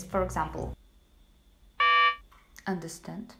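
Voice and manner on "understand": curt commands. Shown as a demonstration. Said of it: "And say like this".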